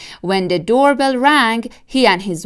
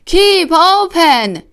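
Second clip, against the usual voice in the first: higher, louder, slow command; yelled; 9 semitones higher, 5 dB louder, slower than usual. Acted. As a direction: bark it up into the fox's jaw. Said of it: "yelled Doctor DeSoto".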